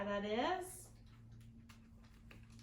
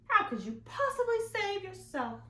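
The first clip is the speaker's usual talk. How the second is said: higher, louder storybook teacher; teacher character; 12 semitones higher, 7 dB louder than usual. Acted. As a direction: play the teacher asking, a touch bossy.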